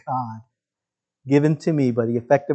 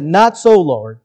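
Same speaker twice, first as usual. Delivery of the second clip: Peter refusing; 4 dB louder, slower than usual. Acted. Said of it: "And Peter said".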